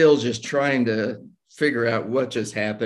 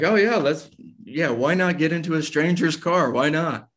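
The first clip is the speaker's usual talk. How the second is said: higher, mock cheerful sarcasm; sarcastic self-mockery; 5 semitones higher than usual. Mocking his own choice to ride with a stranger, higher sarcastic voice. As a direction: roll your eyes at your own bad idea.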